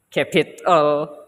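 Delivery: "capital" broken late, capit, then al; wrongly split word. Shown as a demonstration. Student showing classmates another wrong stress, "capital" split capit-al. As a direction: say "capital" slowly, detaching the final al. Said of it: "It's not, let's say, maybe".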